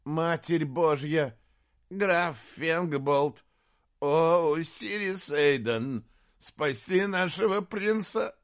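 high, loud, slow pleading cry; horrified prayer. Acted. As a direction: beg God to save the prince. Jester prays in horror. (отчаянная мольба)

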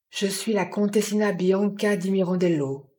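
recited like a lesson learned by heart; toneless, rote recital in an even pitch; monotone. A narrator's reading. Dazed woman gives her name to Jim, monotone. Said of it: "dit-elle d'une voix monotone, comme une leçon apprise par cœur".

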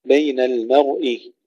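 المرء with a thin mim and a thick ra; thin the mim, thicken the ra of المرء; heavy ra, light mim. Shown as a demonstration. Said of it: "تفخيم الراء وترقيق الميم". (ترقيق الميم وتفخيم الراء في المرء)

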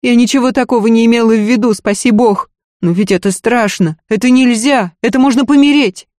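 panicked maid. Acted. Maid panics about the danger, fast and scared. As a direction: rush the words out in fear. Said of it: "Пранька панически оглянулась".

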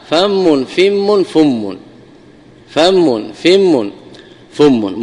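فم said famm, fimm, fumm with the mim doubled; فم مشدد بتثليث الفاء; doubled mim, three vowels. Shown as a demonstration. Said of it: "بتثليث الفاء".

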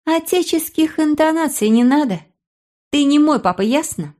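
put-on high, near-tearful girl; pushing back at him, pitched high; upset girl. Sister resenting brother, sobbing after.

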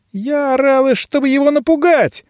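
put-on high girlish retort; high defensive girl; girl's voice. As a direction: justify herself like a young girl. Belyanka defending herself.

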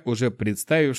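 ordinary delivery, nothing marked

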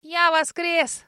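high, very slow proud squeak; proud dragon. A narrator's reading. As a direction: announce it grandly, tiny dragon. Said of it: "гордо ответил Хемгред".

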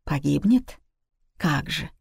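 cool, composed question; subdued, unruffled echo; calm. A narrator's reading. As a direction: answer evenly, without agitation. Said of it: "спокойным голосом ответила".

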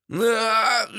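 high drawn cry of pain; very high acted scream. A narrator's reading. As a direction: cry out as darts hit. Three darts hit him.

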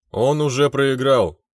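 slow, firm, carrying declaration; loud and clear. Acted. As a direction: announce it clearly and slowly. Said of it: "громко и отчётливо произнёс я".

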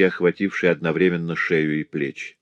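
usual speaking voice

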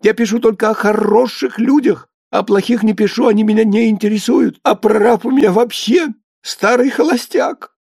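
high, squeaky, insistent rant; thin-voiced indignant cry. A narrator's reading. Writer defending his good characters to Baranov, high indignant cry. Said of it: "закричал Ефим ещё более тонко".

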